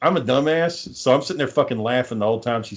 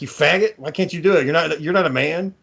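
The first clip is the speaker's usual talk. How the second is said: higher-pitched mock berating; retold insults; 4 semitones higher than usual. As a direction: imitate a wife belittling her husband. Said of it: "she said that she would call him".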